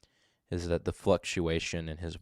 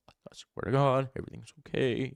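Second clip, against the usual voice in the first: imitated suspect; 5 semitones higher than usual. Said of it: "So he goes from the".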